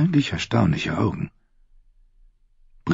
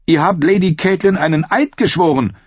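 voiced higher as the young woman Brienne; shy woman knight voice, pitched up; Brienne's voice; 12 semitones higher, 4 dB louder than usual. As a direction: lift into Brienne's earnest higher voice. Brienne accuses, much higher.

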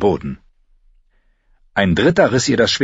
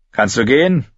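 worried; 5 semitones higher, 3 dB louder than usual. Acted. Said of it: "Er klang besorgt".

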